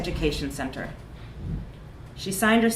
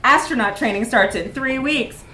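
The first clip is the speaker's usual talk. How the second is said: higher, louder, bouncy advert voice; chirpy recruitment pitch, rising to a cheer; jaunty; 7 semitones higher, 8 dB louder than usual. A narrator's reading. Narrator reading the colorful pamphlet as a jaunty ad. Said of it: "said jauntily".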